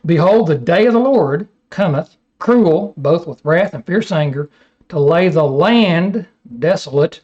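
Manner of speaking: measured, solemn Bible reading; scripture reading. Acted. Preacher reading Isaiah to his class, solemn reading. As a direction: read the prophecy with weight.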